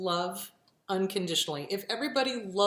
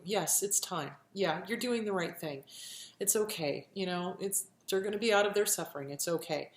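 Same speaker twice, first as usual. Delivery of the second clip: soft, gentle reassurance, a little quieter; reassuring vet; 4 dB quieter than usual. Retold or imitated. Vet reassuring an owner putting a pet down, soft and gentle. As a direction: soothe a grieving owner gently. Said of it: "they will reassure you".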